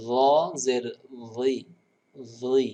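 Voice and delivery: র জের রি slow and clear, each part set apart; রি repeated carefully; correct pronunciation. Shown as a demonstration. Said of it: "আপনাকে বলতে হবে". (শুদ্ধ উচ্চারণে ধীরে র জের রি)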